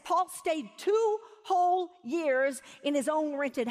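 slow, weighty scripture reading; emphatic scripture reading. Real, not acted. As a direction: stretch out TWO WHOLE YEARS. Reads verse with emphasis.

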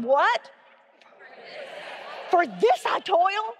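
mock-incredulous; sarcastic question. Shown as a demonstration. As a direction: throw it back as a disbelieving question. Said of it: "try it one more time".

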